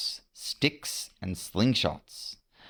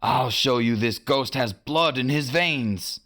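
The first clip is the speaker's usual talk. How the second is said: Hook shouting; 4 semitones higher than usual. A narrator's reading. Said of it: "Hook shouted".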